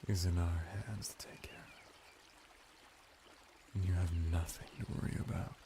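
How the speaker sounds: hushed and fast, breathing the promise; soothing whisper. Acted. Merman soothing the ruler in a hushed whisper. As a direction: lean in and whisper it close. Soft seductive bath attendant.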